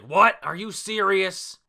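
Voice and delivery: high, loud incredulous outburst; mock-indignant shriek of protest; outraged disbelief. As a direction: yelp it as an affronted manga girl. Voicing Ulti's outraged reaction.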